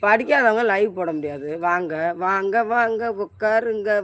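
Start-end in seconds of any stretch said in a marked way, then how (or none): 1.6-4.0 eager welcome. Real, not acted. Welcoming viewers into the live.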